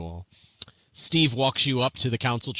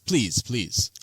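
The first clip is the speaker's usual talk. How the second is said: placating. Acted. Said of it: "waves his hands and says".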